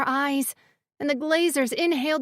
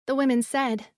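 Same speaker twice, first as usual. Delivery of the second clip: ordinary delivery, nothing marked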